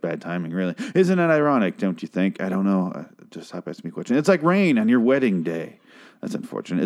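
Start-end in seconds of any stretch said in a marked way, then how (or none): 6.2-6.8 deadpan. Real, not acted. Deadpan remark on lyric.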